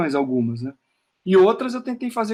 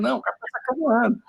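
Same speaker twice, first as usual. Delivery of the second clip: amused reader; 5 semitones higher, faster than usual. Retold or imitated.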